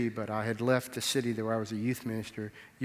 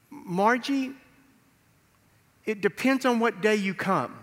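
playful teasing reply; 9 semitones higher, 6 dB louder than usual. Retold or imitated.

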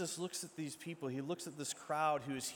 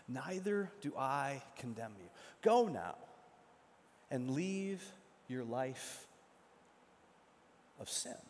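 tender forgiveness; 3 semitones lower, slower than usual. Acted. The part we miss", tender.

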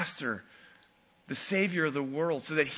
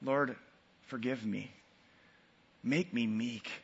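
low, subdued plea for forgiveness; contrite prayer; 5 semitones lower, 7 dB quieter than usual. Retold or imitated. Man asking his Lord for forgiveness, contrite prayer. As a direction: retell a humbled prayer, softly and low. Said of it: "I had to say".

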